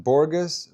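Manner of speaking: Borges with a hard g, BOR-guss, questioning; trying a pronunciation. Shown as a demonstration. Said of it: "how do you say Borges".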